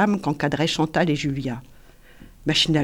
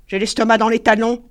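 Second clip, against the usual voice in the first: higher, louder whiny complaint; hungry woman; 4 semitones higher, 6 dB louder than usual. A narrator's reading. Julia complaining she is starving, high louder whine. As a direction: moan about hunger.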